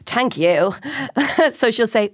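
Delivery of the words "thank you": put-on Dublin accent. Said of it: "such a Dublin accent".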